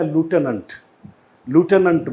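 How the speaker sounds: American लिeutenant said loo-TEN-ant; lieutenant the American way, loo-TEN-ant; American pronunciation. Shown as a demonstration. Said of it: "American जो होते हैं वो इसे बोलते हैं".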